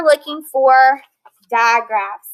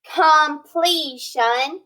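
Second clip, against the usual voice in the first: "completion" stretched out slowly; slow decoding; much slower than usual. Shown as a demonstration. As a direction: read it slowly, sounding it out. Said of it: "Here we have station".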